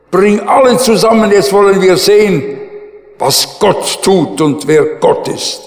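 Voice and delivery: rally them like a challenger; challenging command. Retold or imitated. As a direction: prophet daring the king, loud and fast. Prophet challenges the king.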